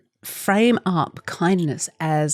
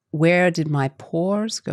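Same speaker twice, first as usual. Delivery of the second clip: slow Australian 'pores' without r, like 'paws'; slow Australian take, 'pores' sounding like 'paws'; Australian accent; slower than usual. Shown as a demonstration. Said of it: "if that was in my accent".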